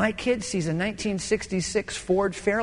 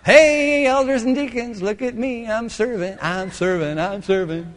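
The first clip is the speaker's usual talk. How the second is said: showing off; 3 semitones higher, 3 dB louder than usual. Retold or imitated. Calling up at elders' window.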